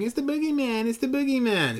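very high-pitched imitation of a frightened-of-the-boogeyman kid; mock little boy. Babysat little boy warning of the boogeyman, high mock child voice. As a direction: squeal it like a small boy, hammed-up. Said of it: "is the little boy that Jamie Lee Curtis is babysitting".

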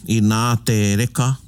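I nā with a long, emphasised nā; slow phrase, emphasis on "nā"; stress on nā. Shown as a demonstration. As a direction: lean on nā and draw it out slowly. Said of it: "you put the emphasis on it".

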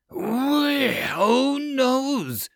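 high squeaky goblin wail. Acted. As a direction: squeal while falling. Goblin missing the ship.

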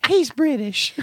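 very high silly voice; skit voice. Acted. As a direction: squeak it out.

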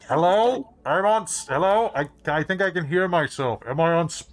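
parent on speakerphone. Acted. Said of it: "Put it on speaker".

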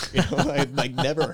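loud laughing words; laughing while telling the story. Real, not acted. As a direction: laugh through it, amused. Laughing at pastor's brick wall joke.

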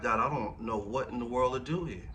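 put-on a touch of the tearful young husband; half-acted desperate prayer in the bathroom; retold crying prayer. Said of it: "I was, like, crying".

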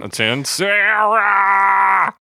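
high, slow, squeaky shout; squeaky giggly alien. Retold or imitated. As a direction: squeal it out like a chipmunk. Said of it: "it sounds a little forced".

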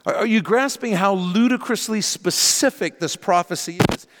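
buzzing noise behind the voice; over an electric razor. Real, not acted. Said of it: "I'm sorry about the buzzing".

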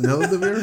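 "Nilvadivir" as a questioning attempt, rising at the end; tentative "Nilvadivir", asking if it is said right; unsure pronunciation. Real, not acted. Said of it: "How do you say it?".

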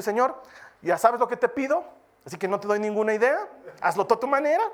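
loud, quick offhand prayer; careless prayer. Pretend. Preacher mocking a lazy prayer, loud and offhand. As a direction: toss the request off at God.

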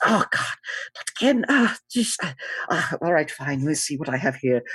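a high-pitched cat-like gambler groaning at his bad luck; Mister Buttons. GM voices Mister Buttons sighing.

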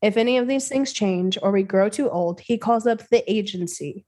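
measured, deliberate read-aloud; story narration. A narrator's reading. Host reading a creepypasta to a co-host, measured story narration. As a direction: narrate it evenly with crisp phrase breaks.

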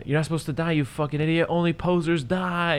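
high, strained mock sob-yell at a dead friend; imitating a tearful, angry outburst; crying and yelling. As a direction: wail it out like a grieving punk. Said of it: "And he's, like, crying and yelling".

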